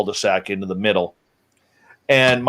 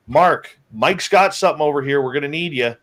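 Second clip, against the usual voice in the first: mild retold yell; 4 semitones higher than usual. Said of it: "yell over to Mark".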